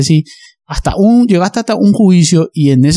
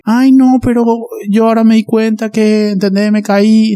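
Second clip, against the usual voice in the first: higher, pleading imitation of a woman covering for her partner; a half-mocking, raised voice brushing off the bruises; mock victim excuse; 5 semitones higher than usual. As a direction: lightly mimic her lame excuse, pitched up. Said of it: "No va a existir eso de que".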